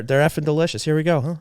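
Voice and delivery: talking through a mouthful of cookie; words round a bite of food; mouth full. Real, not acted. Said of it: "spoken with my mouth full".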